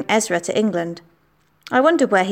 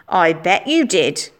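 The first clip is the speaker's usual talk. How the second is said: insinuating; slower than usual. Acted. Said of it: "raised his eyebrows meaningfully".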